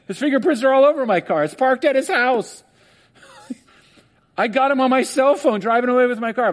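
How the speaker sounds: high, laughing victim; laughing disbelief. Pretend. Preacher laughs as the robbed victim, high. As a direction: laugh at the absurdity.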